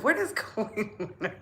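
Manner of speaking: high-pitched, laughed-through exclamation; amused, incredulous outburst breaking into laughter; laughing disbelief. Retold or imitated. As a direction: crack up halfway through the question. Retells own amused disbelief, laughing.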